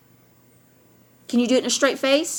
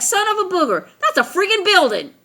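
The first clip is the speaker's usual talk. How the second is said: higher, laughing discovery; half-laughing I-knew-it discovery; retold surprise; 8 semitones higher than usual. The speaker recalling spotting the building, laughing surprise.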